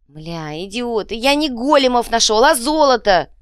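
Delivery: high, loud cursing yell; frustrated goblin shouting about gold; exasperated shout. Acted. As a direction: yell at the idiots. Exasperated yelling at friends.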